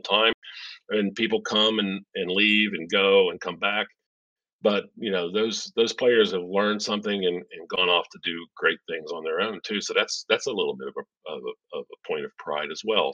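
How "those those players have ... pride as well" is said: choppy call audio breaking up; glitchy robotic call. Real, not acted. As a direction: voice cutting out like a bad connection. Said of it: "the audio is breaking up a little bit".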